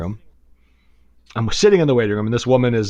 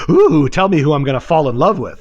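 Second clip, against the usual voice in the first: hammed-up bubbly gushing, a little raised; mock bubbly; 2 semitones higher, 3 dB louder than usual. Client mocking a giddy visit to a psychic, mock bubbly. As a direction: play at being giddy with curiosity. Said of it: "all bubbly saying".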